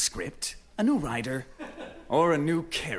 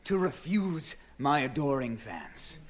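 grand shout; 4 semitones higher than usual. Acted. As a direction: proclaim it to your adoring fans. Actor playing to the crowd.

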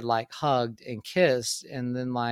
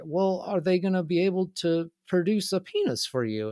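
higher-pitched imitation of an awkward questioner; imitated old man; 7 semitones higher than usual. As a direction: repeat it in a put-on, higher voice. Old man repeats his question when challenged.

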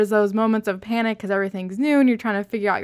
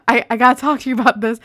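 excited; 3 semitones higher, 6 dB louder, faster than usual. Retold or imitated. Eager wife at bedtime.

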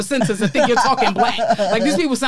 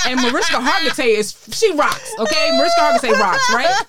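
building from excited to a high, loud shout; gushing fan shout; 5 semitones higher, 4 dB louder than usual. Retold or imitated. Fan writing to Mariska, rising to a shout. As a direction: gush louder and higher until you're yelling her praise.

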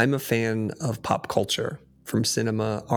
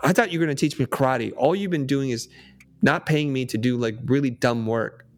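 frustrated outburst; 2 semitones higher than usual. Retold or imitated. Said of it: "he hits his breaking point".

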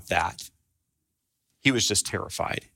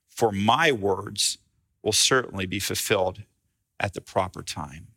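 gentle Gabriel; 3 semitones lower than usual. Pretend. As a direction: speak kindly, slowing down on the last words. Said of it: "Gabriel says in a very gentle voice".

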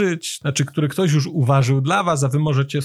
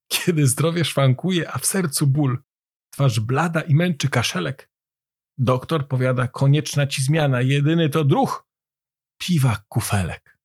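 measured verse, pausing after each line; poem recitation. A narrator's reading.

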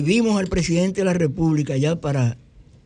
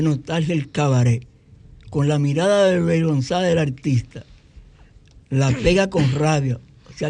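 grand recital of song lyrics; poetry declamation. Shown as a demonstration. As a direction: recite it like a poem, measured and grand. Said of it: "pero voy a declamar".

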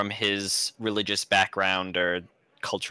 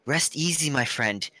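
gently voiced reassurance, slightly higher; settling a friend; 4 semitones higher than usual. The speaker settles his panicking friend after the whispered confession, soothing. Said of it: "settle him and be like".

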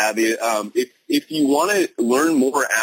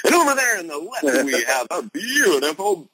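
higher, hammed-up host announcement; game show host; 6 semitones higher than usual. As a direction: sweep a hand and announce the prize. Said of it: "talking like a game show host".

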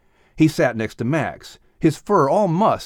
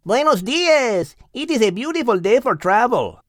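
put-on higher, cheery Spanish-accented greeting; 10 semitones higher than usual. Rudy and Rosie greeting the animals, Spanish accent. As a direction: greet the morning brightly.

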